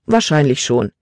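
unruffled, settled reply; calm. Acted. Father who expected this answers his daughter, calmly. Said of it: "Seine Stimme war ruhig".

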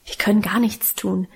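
usual speaking voice

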